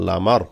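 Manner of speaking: "লামার" said with short vowels; no stretch. Shown as a demonstration. Teacher showing where no madd applies, unstretched "লামার". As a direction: keep "লামার" short, nothing drawn out. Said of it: "কোনো টান নাই এখানে".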